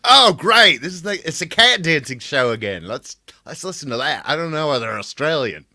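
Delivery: high, loud delighted voice; excited fan. Retold or imitated. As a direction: play a gushing overseas fan. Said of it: "And they're like".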